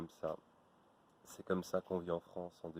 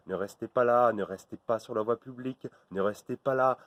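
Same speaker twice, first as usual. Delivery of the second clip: loud, raised barked orders; ordering out; 4 semitones higher, 7 dB louder than usual. Acted. Guard ordering people off the street, loud and raised. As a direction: clear everyone off the street.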